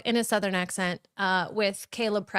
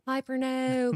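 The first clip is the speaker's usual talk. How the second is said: higher-pitched mimicked Carolina drawl; North Carolina Southern accent; 6 semitones higher, slower than usual. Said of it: "more of a North Carolina Southern accent".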